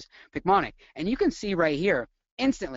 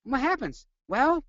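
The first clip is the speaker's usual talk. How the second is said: high-pitched mock freak-out; demonstrating panic in a raised voice; acted panic; 7 semitones higher than usual. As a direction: play the anxious patient, pitched up. Playing patient having panic attack.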